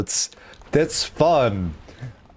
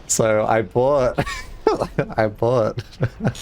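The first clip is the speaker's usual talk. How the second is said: laughing; 3 semitones lower than usual. Real, not acted. Laughing while starting the story.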